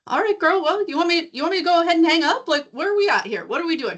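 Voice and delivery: sassy retort. Retold or imitated. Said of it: "And I go".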